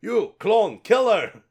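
building to a screaming order; rising from plea to screamed command; frenzied rage. Acted. Frenzied character ordering kill.

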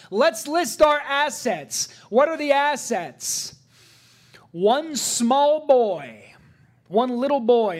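high, loud preaching to the congregation; full-force preaching. Acted. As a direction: preach it out, building fervour.

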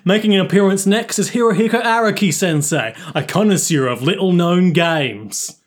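upbeat YouTuber host voice, lightly Cockney. Acted. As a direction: hype it up like a streamer intro. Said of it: "my YouTuber voice".

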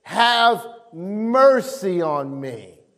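mild preacher's cry, slowly drawn out. Acted. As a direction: stretch it into a slow, acted plea. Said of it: "he cried out all the more".

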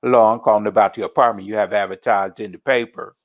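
quick phone inquiry in African American English; African American dialect. Shown as a demonstration. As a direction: run the words together, African American dialect. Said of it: "using an African American dialect".

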